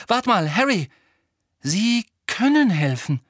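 sudden realisation. A narrator's reading. Hermine realising the others can help, suddenly excited. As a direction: break in with an idea. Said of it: "sagte Hermine plötzlich".

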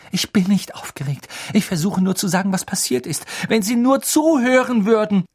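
high, urgent, building to loud; heated plea to be heard; exasperated protest. A narrator's reading. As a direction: protest with mounting frustration. Boy protests he is not upset.

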